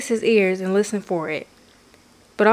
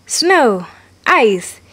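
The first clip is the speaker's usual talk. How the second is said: grumpy snort; 4 dB louder than usual. Acted.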